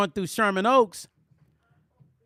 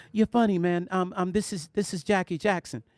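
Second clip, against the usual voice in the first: a hint of a gentle, patient caller; Jackie Jackson. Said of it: "This is exactly how he sounded".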